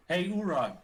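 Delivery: loud, drawn-out call to Uruk; mock yell. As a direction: shout it across the cavern, half joking. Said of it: "I'm not gonna yell out".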